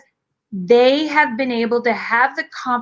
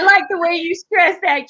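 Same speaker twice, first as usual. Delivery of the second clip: laughing; 7 semitones higher than usual. Real, not acted. Laughs at host's emphasis.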